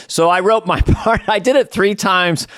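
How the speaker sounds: normal talking voice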